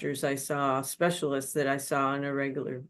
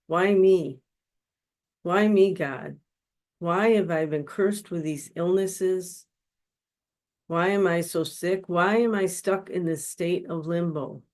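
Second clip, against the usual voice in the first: mock anguished cry, half-hearted yell; reliving the moment of crying out at God, not full force; retold yelling at God; 2 semitones higher than usual. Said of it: "I was yelling and sobbing and crying at God".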